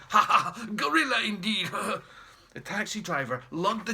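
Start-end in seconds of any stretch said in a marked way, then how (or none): 0.1-2.5 nervous laugh. Acted. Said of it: "laughed nervously".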